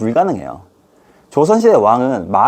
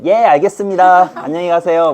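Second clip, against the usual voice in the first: clueless student; 4 semitones higher than usual. Acted. Student cheerfully letting the teacher quit. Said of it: "또 찍히잖아요".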